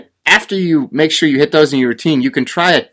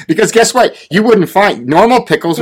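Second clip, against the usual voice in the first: sarcastic build-up; 8 semitones higher, 4 dB louder than usual. Real, not acted. Sarcastic apocalypse rant.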